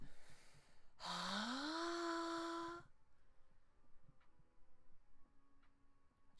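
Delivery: breathy sigh sliding up high; rising breathy sigh. Shown as a demonstration. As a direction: whoosh of breath climbing in pitch. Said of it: "So like this".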